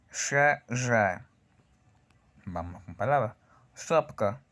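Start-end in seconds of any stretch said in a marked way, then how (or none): 0.1-1.2 hissed "She", then buzzing "zhe"; voiceless-voiced contrast. Shown as a demonstration. Teacher drills the two consonants for learners, unvoiced then voiced. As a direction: switch the buzz on from "She" to "zhe". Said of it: "no hay vibración en mis cuerdas vocales".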